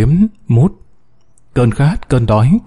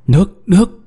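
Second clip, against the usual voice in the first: excited cry; 7 semitones higher than usual. A narrator's reading. Trapped miner spots water.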